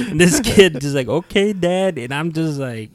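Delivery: high, loud words through laughter; laughing through words. Real, not acted. Retelling the kid's meek reply, laughing loudly. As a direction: keep laughing while you say it.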